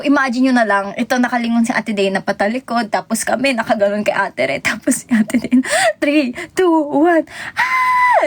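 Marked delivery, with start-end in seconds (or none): 6.0-8.3 sudden scream. Retold or imitated. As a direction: count down and burst into a scream. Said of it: "tas sumisigaw". (biglang sigaw pagkatapos ng bilang)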